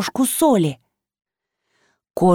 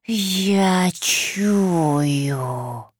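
slow hungry whisper; creature whisper; 3 dB quieter than usual. Acted. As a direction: breathe it like a monster sniffing. Monster whispers.

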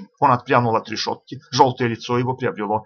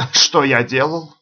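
slow, hoarse echo question; husky, drawn-out query; 3 semitones higher, 4 dB louder, slower than usual. A narrator's reading. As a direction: draw the question out huskily. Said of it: "переспросил капрал хриплым голосом".

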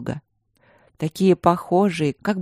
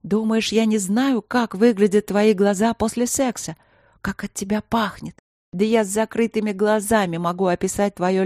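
higher, aching reproach; queen reproaching the king for her lost love; wounded queen; 4 semitones higher than usual. Acted. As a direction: lay out every betrayal. Queen's bitter accusation.

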